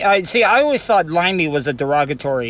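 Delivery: talking around a lip of chew; dip in lip. Real, not acted. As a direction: mouth full of dip tobacco. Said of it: "I have a dip in my mouth during this interview".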